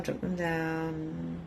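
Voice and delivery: calming meditation voice. Shown as a demonstration. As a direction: ease them into letting go. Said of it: "So just drop your barriers".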